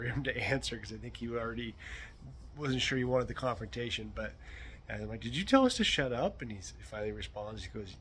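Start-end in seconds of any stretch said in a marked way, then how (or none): 5.2-6.4 high-pitched challenge, called across the yard; barking back. Retold or imitated. Host asks his neighbor once more over the fence, barking. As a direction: repeat the retold question, pitched well up. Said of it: "I barked back over the fence".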